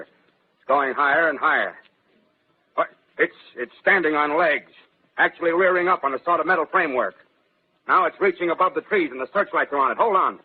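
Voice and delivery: a reporter whose calm breaks as the thing stands up; climbing from tense to alarmed; mounting alarm. Acted. Reporter watching machine rise.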